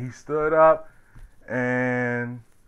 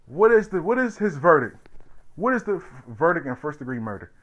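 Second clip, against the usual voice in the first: announcing the verdict; 5 semitones higher than usual. Retold or imitated. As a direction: read each charge out like the clerk. Clerk reading the verdict aloud.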